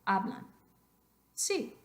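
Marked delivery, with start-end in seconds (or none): 0.0-0.5 hablan with the stress on the first syllable, "A-blan"; correct stress. Shown as a demonstration. Teacher models the correct pronunciation, hablan stressed on first syllable. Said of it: "Pronunciación correcta".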